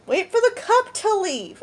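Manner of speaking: high, drawn-out plea; slow, high mimicry of a sleep talker; imitated sleepy insistence. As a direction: stretch it out in a high voice. Imitating a sleep talker's odd order.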